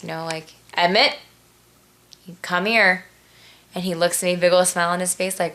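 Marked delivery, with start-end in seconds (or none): 0.7-3.0 a touch of stern mother calling her son; lightly stern mom summoning the child; mom's stern voice. Retold or imitated. Mom calls her toddler over to the scribbled wall, mildly stern. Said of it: "in my mom's stern voice".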